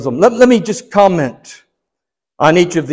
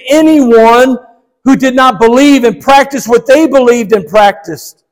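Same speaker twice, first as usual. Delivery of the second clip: raised, emphatic sermon delivery; preaching; 6 semitones higher, 4 dB louder than usual. Real, not acted. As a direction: press the point home to the congregation. Preacher builds in force.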